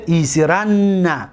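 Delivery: ایسرن drawn out slowly with a long final n; slow demo. Shown as a demonstration. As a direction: say ایسرن slowly for students to copy. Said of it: "دقت دادید؟".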